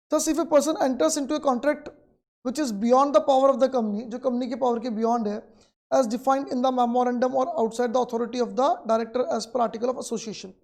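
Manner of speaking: reads the textbook line out very slowly, word by word; slow dictation. Acted. Teacher dictating the textbook definition to students, very slow. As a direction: dictate it so students can write.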